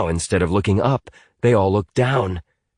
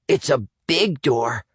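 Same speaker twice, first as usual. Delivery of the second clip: slow, higher voice in awe; Atticus voiced; 6 semitones higher than usual. A narrator's reading. Atticus staring up at the huge door, slow and awed. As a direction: gaze up at it and marvel. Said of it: "added Atticus".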